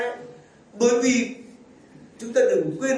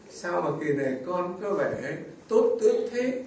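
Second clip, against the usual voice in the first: mock tease; 4 dB quieter than usual. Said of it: "mỉa mai".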